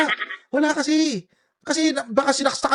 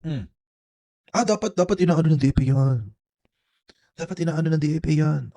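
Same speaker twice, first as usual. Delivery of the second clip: mocking mimicry; 6 semitones lower than usual. Streamer mocks senator's weak reply.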